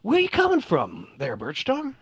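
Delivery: eager elf host. Acted. Elf welcomes player to game.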